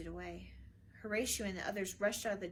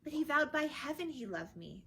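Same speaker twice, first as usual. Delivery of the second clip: higher, louder protest; 7 semitones higher, 6 dB louder than usual. A narrator's reading. Daughter protesting to her father, higher and louder. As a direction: push back in earnest. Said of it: "Ophelia protested".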